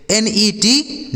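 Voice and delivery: slow spelling. Shown as a demonstration. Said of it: "teacher spells the word out".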